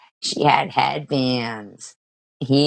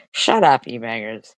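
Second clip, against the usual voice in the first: annoyed; 2 semitones lower than usual. Real, not acted. Scolding chat.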